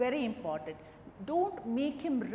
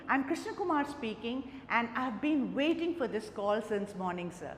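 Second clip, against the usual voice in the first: bright, eager phone greeting, pitched up; enthusiastic greeting. Shown as a demonstration. Candidate answering the interviewer's call, enthusiastically. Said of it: "that shows your enthusiasm".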